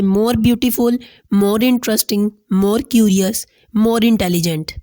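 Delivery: each phrase spelled out slowly for students; slow example words. Shown as a demonstration. Teacher reading example words slowly to the class. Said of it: "उनके साथ हम more लगाएंगे".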